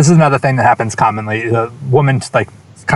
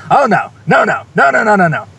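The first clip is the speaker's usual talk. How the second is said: imitating an older woman's high, wailing "no, no, no"; dismayed older woman; 10 semitones higher, 4 dB louder than usual. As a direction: pitch way up and moan the refusals like a flustered grandmother. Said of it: "She's still saying".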